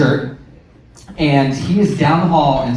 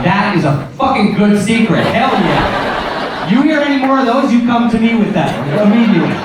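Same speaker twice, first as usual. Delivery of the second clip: higher, quick and eager; mock thrilled; 5 semitones higher than usual. Parent hyped about the child's gossip, high and quick. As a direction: gush over the juicy gossip.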